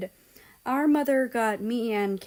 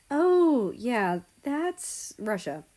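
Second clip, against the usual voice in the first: scared; 4 semitones higher, 3 dB louder, much slower than usual. Acted. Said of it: "sounding surprisingly scared".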